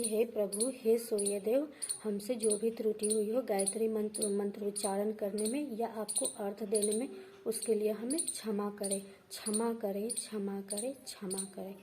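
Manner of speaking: humble prayer. Shown as a demonstration. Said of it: "ऐसा बोलना है आपको".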